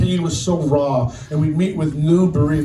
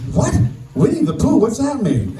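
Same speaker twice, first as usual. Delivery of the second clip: higher-pitched, baffled questioning; mock-baffled, pitched up; retold puzzlement; 7 semitones higher than usual. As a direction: re-enact being thrown by a child's odd remark. Retold baffled reaction to child.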